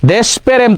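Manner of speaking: দেশপ্রেম as desh-perem, cluster split; wrong pronunciation. Shown as a demonstration. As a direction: say দেশপ্রেম with pe-rem and no o after sh. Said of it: "তো না".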